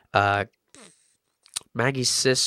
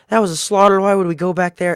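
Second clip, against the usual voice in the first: incredulous protest; 7 semitones higher, 5 dB louder than usual. Retold or imitated. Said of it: "they're like".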